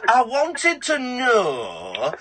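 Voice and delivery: hammed-up crying imitation of the caller; mocking the caller. Host mocking the caller's put-on voice, wailing and shouting.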